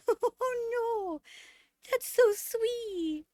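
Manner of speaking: slow, melting gratitude; touched, near tears. Real, not acted. Streamer reacting to a big gift, tearfully touched. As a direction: draw the words out, really moved. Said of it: "I'm actually gonna cry".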